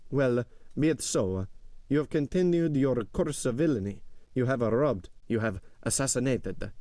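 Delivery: stern, accusing steward in a measured voice; Bertuccio. A narrator's reading. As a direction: pronounce the accusations as a grave steward.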